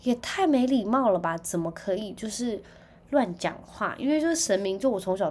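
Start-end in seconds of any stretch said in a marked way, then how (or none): 0.0-3.6 shocked scolding. Retold or imitated. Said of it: "然后我就说".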